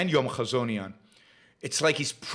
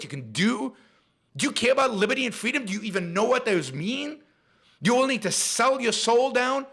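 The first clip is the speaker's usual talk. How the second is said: higher and heated, firing questions at the listener; real angry rant; 6 semitones higher than usual. Real, not acted. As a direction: let the real anger push every question up. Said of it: "That made me really angry".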